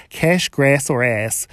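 "grass" and "ass" with the short American a of "cat"; American pronunciation, flat a in "grass"; American-style vowels. Shown as a demonstration. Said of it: "doesn't really work with a New Zealand accent".

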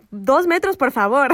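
high, loud keep-away plea; mock alarm. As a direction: push the stranger back, half joking. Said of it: "Y yo como".

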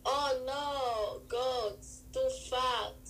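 badly faked southern accent, sounding foreign; halting, unconvincing attempt at a southern accent; failed southern accent. Improvising a goat farmer fleeing a hurricane, botched southern accent. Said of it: "That's not a southern accent".

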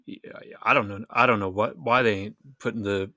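grumbling Southern twang of a football fan; Saints-bar twang. Retold or imitated. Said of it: "it comes out".

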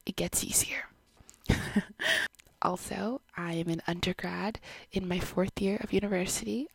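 gentle whispered confession to the camera. Real, not acted. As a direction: breathe every word close to the mic. Whispers the whole video.

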